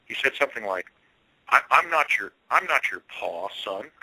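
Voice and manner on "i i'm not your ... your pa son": a hint of a rural Pennsylvania drawl from an old farmer; rustic Pennsylvania accent. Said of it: "a rustic Pennsylvania kind of accent".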